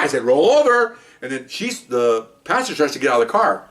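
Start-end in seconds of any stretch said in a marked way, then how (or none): 0.2-1.0 high-pitched police command; imitated yelled order. Officer orders shocked suspect over, imitated yell. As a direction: yell the order at a downed man.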